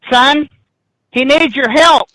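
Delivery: a hidden woman calls from the room; old witch lady's voice. Retold or imitated. Unseen bruja lady calling down to the boy, eerie. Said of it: "and the lady says".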